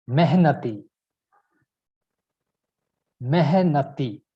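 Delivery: "mehnati." said carefully as a model for others; pronunciatiedemo. Shown as a demonstration. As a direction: demonstrate "mehnati." clearly, syllables distinct. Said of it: "to pronounce that".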